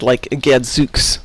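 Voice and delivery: slow, drawn-out "Gadzooks"; mild Detroit accent on "Gadzooks"; Detroit Gad. Retold or imitated. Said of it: "They kept saying".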